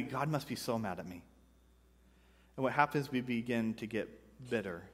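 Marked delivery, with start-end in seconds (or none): 0.0-1.2 softer, lower self-pity; a touch of glum muttering to yourself; mock despair. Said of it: "and we automatically".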